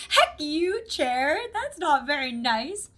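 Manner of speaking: high, playfully offended retort; jokey scolding; mock indignation. Mock outrage at a teasing remark.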